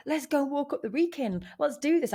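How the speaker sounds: high, eager call to a friend; talking a friend into a hike with rising excitement; excited. Retold or imitated. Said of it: "I'm all excited".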